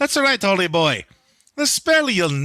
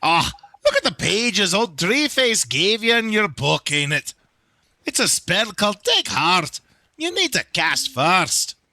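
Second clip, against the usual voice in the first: attempted, put-on Scottish accent. Answering the other character's question as Mister Drippy: Scottish accent. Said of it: "Closest I can do to uh, to a Scottish accent".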